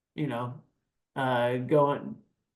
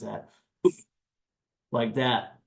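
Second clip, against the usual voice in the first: Cookie Monster growl demo; 2 semitones lower, slower than usual. Shown as a demonstration. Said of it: "Cookie Monster sounding scream or demonic sounds".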